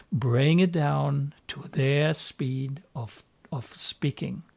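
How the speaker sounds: slow, spaced-out delivery. Shown as a demonstration. Coach on matching a slow-talking client, slowed down. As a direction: bring the pace right down.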